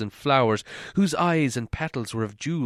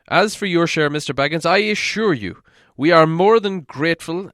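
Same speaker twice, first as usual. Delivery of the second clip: louder, higher stately dwarf king; proud dwarf lord making promises; Thorin; 4 semitones higher, 5 dB louder than usual. Acted. Thorin assuring Bilbo of his share, louder and stately.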